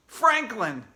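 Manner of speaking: loud, high blurted name; shouted answer. A narrator's reading. Rival shouting the answer, loud and high. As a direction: snap the answer out first. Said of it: "shouted Morgan Brocklebank".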